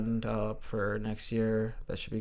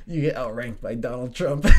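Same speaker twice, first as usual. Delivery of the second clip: cracking up at your own comeback; laughing. Real, not acted. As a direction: say it through real laughter.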